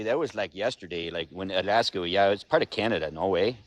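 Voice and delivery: low, hammed-up Canadian accent; mock Canadian accent. Joking about losing Alaska, low mock Canadian accent.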